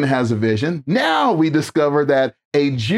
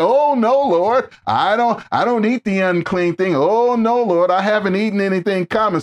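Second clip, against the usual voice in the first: higher, prim mock refusal; self-righteous Peter; 3 semitones higher than usual. Preacher mimics Peter refusing God, prissy and self-righteous. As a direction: play Peter turning his nose up. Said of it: "self-righteous in his reply to God".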